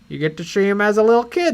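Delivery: mock director pitching his idea; George Lucas. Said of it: "George is like".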